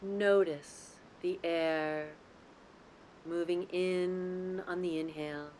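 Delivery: calm, unhurried guidance with long pauses between phrases; guided meditation. Real, not acted. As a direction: lead them gently into the breath, lingering on key words. Leads guided breathing meditation.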